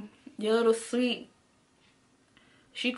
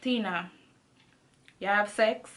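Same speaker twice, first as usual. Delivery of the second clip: calm question; 3 semitones lower than usual. Retold or imitated. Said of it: "she's saying it so calmly".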